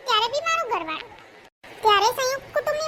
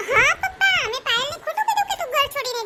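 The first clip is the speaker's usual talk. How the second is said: high, loud mocking yes; sarcastic retort; 4 semitones higher, 3 dB louder than usual. Daughter-in-law snaps back at father-in-law, sarcastic and loud. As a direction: throw it back at him sarcastically.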